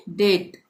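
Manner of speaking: डेट with no b before the t; silent B. Shown as a demonstration. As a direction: leave the b out of डेट. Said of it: "बी का उच्चारण नहीं करेंगे".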